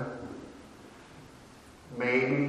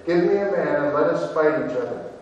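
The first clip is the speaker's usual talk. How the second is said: a louder, preached giant's challenge; Goliath's challenge; 4 dB louder than usual. Acted. Goliath shouting defiance at the ranks of Israel, louder. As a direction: throw the taunt across the valley. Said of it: "Then the Philistine said".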